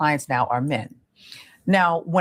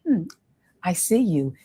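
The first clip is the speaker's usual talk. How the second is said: soft tone. Shown as a demonstration. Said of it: "It's a softer tone".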